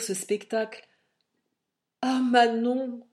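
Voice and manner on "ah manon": ton tendre. Acted. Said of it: "lui dis-je d'un ton tendre".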